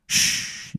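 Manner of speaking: whispered shush; hushing shh. Acted. Five henchmen hushing the player in a whisper. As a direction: shush them, breathless. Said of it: "And they all go".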